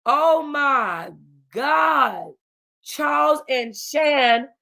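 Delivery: high, stretched-out cry of shock; panicked, drawn-out, high-pitched horror; horrified disbelief. Acted. Character discovers a kidnapping at gunpoint.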